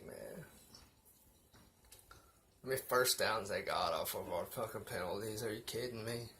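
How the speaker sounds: a little tipsy and loose. Real, not acted. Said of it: "a little tipsy".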